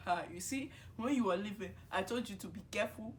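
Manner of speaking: lightly voiced scolding mom in her accent; a hint of a mother's told-you-so lecture; imitated mother. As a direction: imitate mom's accented warning. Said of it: "And my mom is like".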